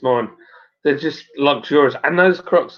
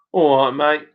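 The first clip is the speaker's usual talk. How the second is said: Paul's way of talking; faster than usual. Retold or imitated. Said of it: "That's how he talks".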